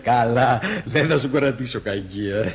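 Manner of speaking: chuckling through the words; amused drunk brushing off a rebuff; drunken chuckle. Acted. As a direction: laugh it off, tipsy and indulgent. Drunk man chuckling at rejection.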